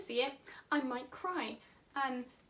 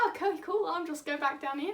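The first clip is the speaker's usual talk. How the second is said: lightly sketched Australian farmer voice. Acted. Farmer agreeing with signalmen, light Australian accent. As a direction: answer as an easygoing farmer, mildly Australian. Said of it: "I don't know why he's Australian".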